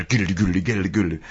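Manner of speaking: quick rolling mouth drums; imitated drum roll. Storyteller imitating Tim testing the kit, soft mouth drumming. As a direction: rattle off a soft drum fill.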